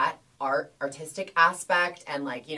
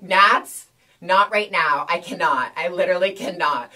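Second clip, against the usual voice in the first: louder, pleading with a laugh behind it; exasperated plea; 2 semitones higher, 7 dB louder than usual. Retold or imitated. To her husband during the exam, loud exasperated plea. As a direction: beg him to stop, half laughing.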